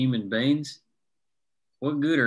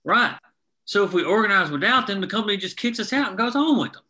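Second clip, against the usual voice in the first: heated; 8 semitones higher, 4 dB louder than usual. Acted. Heated argument with Mikey.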